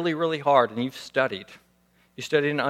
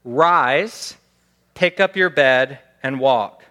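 louder call-and-response line; lead the repetition; 6 dB louder, slower than usual. Shown as a demonstration. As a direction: say it clearly for the congregation to echo. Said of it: "Repeat after me".

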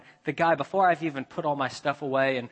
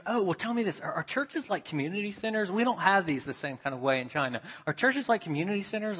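higher, eager stranger's questions; curious questioner; 5 semitones higher than usual. Retold or imitated. Student asking the pastor about churches, high and curious. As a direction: lift into a keen questioner.

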